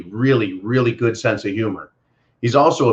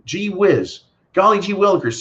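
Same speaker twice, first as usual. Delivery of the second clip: sarcastic; 6 semitones higher than usual. Acted. Sarcastic mock amazement.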